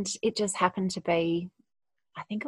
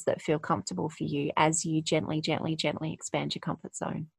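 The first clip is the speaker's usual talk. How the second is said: gentle encouragement. Real, not acted. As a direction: let the gentlys soothe and settle. Gentle closing advice.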